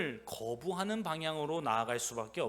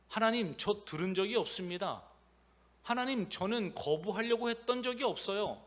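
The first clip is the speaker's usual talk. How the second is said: mock excuse; 4 semitones higher than usual. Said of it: "이러한 핑계를 댈 수가".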